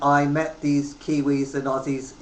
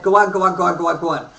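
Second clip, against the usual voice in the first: put-on Irish accent; 3 semitones higher, 7 dB louder, faster than usual. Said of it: "He said".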